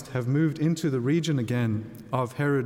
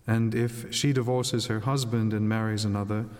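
Gospel reading. Acted. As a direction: read scripture aloud at Mass.

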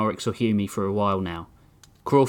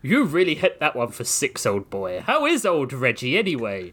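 British gentleman. Acted. Ape man, British voice.

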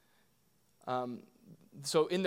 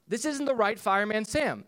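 put-on high, loud little-kid voice; Evie; 6 semitones higher, 6 dB louder than usual. Daughter complaining to dad about the cartoon, high childlike objection. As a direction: imitate a small daughter objecting. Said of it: "and Evie goes".

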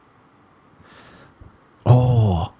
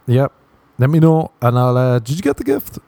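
much higher, pestering sing-song; fake innocent son; 3 semitones higher than usual. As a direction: needle mom about the gift, pitched way up. Pretend phone call to mom.

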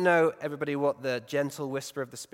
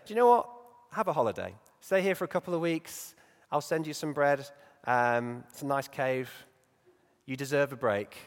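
mock indulgent God. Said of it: "he doesn't say".

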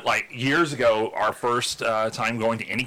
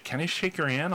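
small, high, softer nervous question; a touch of nerves, pitched up; 6 semitones higher, 4 dB quieter than usual. Retold or imitated. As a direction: imitate a shy fan asking timidly. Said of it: "like, nervously".

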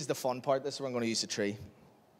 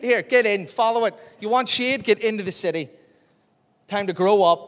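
raised, higher urgent push to get moving; hammered-up divine telling-off, louder; urging voice of God; 4 semitones higher, 5 dB louder than usual. Acted. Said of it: "What's the east wind saying".

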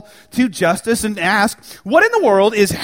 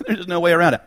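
laughing repeat; much faster than usual. Real, not acted.

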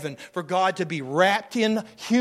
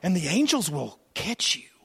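tempter's call; 2 semitones higher than usual. Retold or imitated. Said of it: "the tempter took him up to a high place and said".

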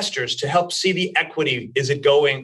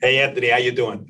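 put-on playful New York accent, laughing; 3 semitones lower than usual. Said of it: "your New York accent didn't come through".

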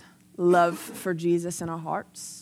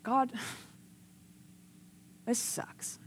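very soft, slow, half-voiced complaint; quiet grumbling; 3 semitones higher, 13 dB quieter, much slower than usual. Preacher retells complaining to God in bed, quietly dejected. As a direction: grumble privately to God with a laugh.

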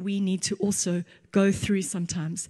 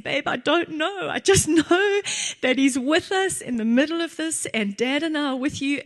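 higher, gentle mock-tearful reassurance; a mother retelling how she soothed her crying son, higher; retold tearful comfort; 6 semitones higher than usual. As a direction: comfort the child through remembered tears, lightly acted. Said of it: "I was crying and saying".

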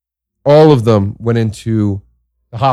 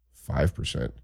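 deadpan doctor; 9 semitones lower, 14 dB quieter, slower than usual. Retold or imitated.

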